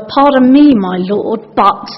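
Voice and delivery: pointed "me", then dropping on "my lord"; polite words with a barb underneath; passive-aggressive. Acted. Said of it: "a bit of passive aggressiveness in Gideon's response".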